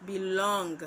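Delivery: "belong" with a light "be" and a strong "long"; "belong" as an iamb, second syllable stressed. Shown as a demonstration. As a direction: lean hard on the "long" in "belong". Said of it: "Unstressed syllable followed by a stressed syllable".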